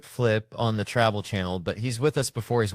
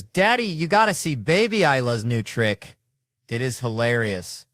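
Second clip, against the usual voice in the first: a hint of an eager little boy, higher and louder; excited kid voice; 4 semitones higher, 5 dB louder than usual. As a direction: lightly play the thrilled young son. Young son voiced excitedly.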